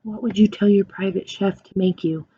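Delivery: ordinary talk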